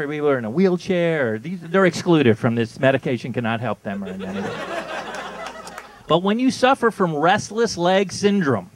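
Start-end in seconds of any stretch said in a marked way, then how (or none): 2.8-8.7 ad read. Shown as a demonstration. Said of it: "I'm gonna read it to you now".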